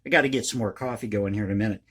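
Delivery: talking around a pipe stem; words round a lit pipe; pipe in mouth. Real, not acted. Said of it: "Let me light my pipe again".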